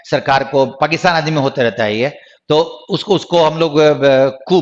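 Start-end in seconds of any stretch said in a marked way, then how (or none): 4.5-4.6 "कू" ending on a long oo, no P; silent P. Shown as a demonstration. Teacher explaining that the P in coup is silent, silent P. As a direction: say "कू" with the final P dropped. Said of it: "पी का उच्चारण नहीं होता".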